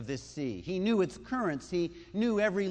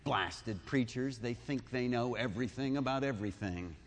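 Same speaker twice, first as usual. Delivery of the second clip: under his breath; 5 semitones lower, 5 dB quieter than usual. Retold or imitated. Peter grumbling to Andrew under his breath about preachers. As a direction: mutter it where the preacher can't hear. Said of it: "utters an obscenity ... under his breath".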